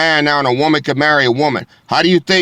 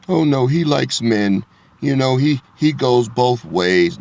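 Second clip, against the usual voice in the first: mock polite euphemism. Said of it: "You don't want me to say it like that".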